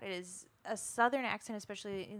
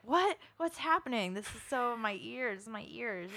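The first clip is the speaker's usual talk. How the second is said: mock bewilderment; 3 semitones higher than usual. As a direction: act thrown by what you hear, hammed-up. Acts out shock at the accents.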